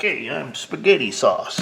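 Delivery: high, loud, slow Italian caricature; mock Italian guy. Mechanic invents a silly Italian name, mock-Italian voice. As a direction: ham up an Italian introduction. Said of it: "some kind of sweet Italian name".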